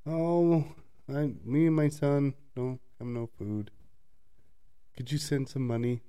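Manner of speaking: a lightly voiced begging mother; mock pleading mother. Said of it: "it went to".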